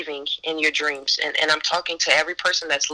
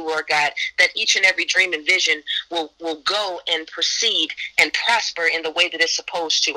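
prayer. Acted. Leads a prayer.

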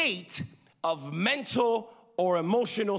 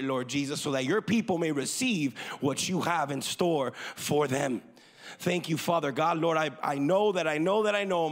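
prayer; 3 semitones lower than usual. Real, not acted. Opens with a prayer.

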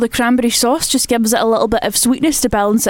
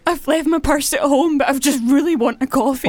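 fake sad plea. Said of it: "I feel bad for you now".

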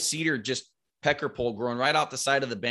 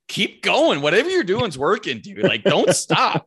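high, loud, eager urging; retold hushed-but-hyped push to keep calling; excited urging; 7 semitones higher, 6 dB louder than usual. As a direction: egg your buddy on, keep it going.

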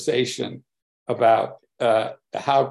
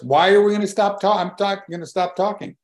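high, fast, louder protest from the neighbor; indignant protest; 8 semitones higher, 4 dB louder than usual. Retold or imitated. Neighbor protesting to Joel about stopping talking, high and indignant. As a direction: blurt it out, affronted and rushed.

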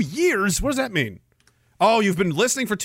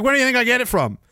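lightly voiced cranky grandma, higher; cranky grandmother; 6 semitones higher, faster than usual. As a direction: imitate a cranky retort, pitched up. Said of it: "And she's always cranky".

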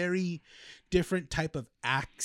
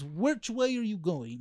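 slow, higher mock Russian accent; 4 semitones higher, slower than usual. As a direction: ask slowly, imitating a Russian accent. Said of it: "it sounds like a Russian accent".

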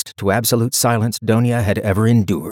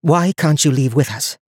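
calm; 6 semitones higher than usual. A narrator's reading. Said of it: "Donia repeated calmly".

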